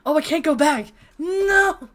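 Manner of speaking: loud, high wail of dismay; anguished cry. Real, not acted. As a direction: cry out in despair. Cannot return to earlier scene.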